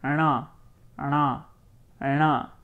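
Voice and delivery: rana with na said tongue curled back; retroflex na. Shown as a demonstration. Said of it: "This one is pronounced as".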